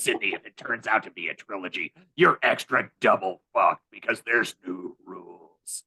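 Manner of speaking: low haunting ghost voice; lightly voiced spooky ghost; ghost man voice. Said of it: "got ghost man voice, just started talking like this".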